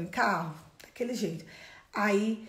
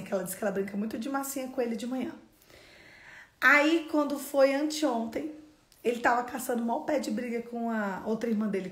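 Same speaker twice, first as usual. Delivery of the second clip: ordinary talk, nothing marked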